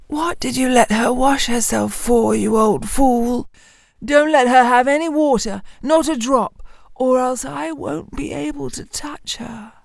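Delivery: bully the miller like a furious devil; angry devil. Acted.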